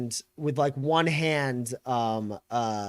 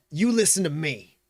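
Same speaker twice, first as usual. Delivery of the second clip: raised, insistent command; McGarrett; 4 semitones higher, 4 dB louder than usual. Acted. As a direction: colonel demanding to be heard. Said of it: "and he goes".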